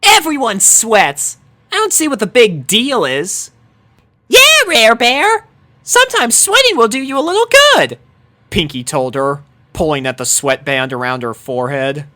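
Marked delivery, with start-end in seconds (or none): 0.0-3.5 a hint of scoffing disbelief; incredulous Dash. A narrator's reading. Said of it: "incredulous look". 4.3-8.0 put-on very high, bubbly fast girl voice; Pinky. A narrator's reading. Pinky teasing Rarity, very high bubbly voice.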